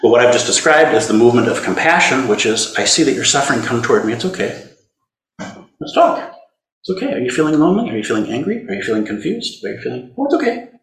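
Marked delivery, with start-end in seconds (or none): 2.8-10.7 compassionate voice. Shown as a demonstration. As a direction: gently ask a child how it feels. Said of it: "You can hear it in my voice".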